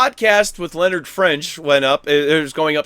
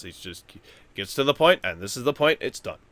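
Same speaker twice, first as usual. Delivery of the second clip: consistent monotone; 3 semitones lower, 4 dB quieter than usual. Shown as a demonstration. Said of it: "he talks like this".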